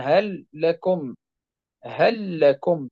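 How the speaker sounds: هل لكم slowly, the lam of هل fused into لكم with a doubled lam; merged lam demo. Shown as a demonstration. Teacher demonstrating the merge to students, slow and clear. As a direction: let هل lean straight into لكم, one long lam. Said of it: "تدغم فيها".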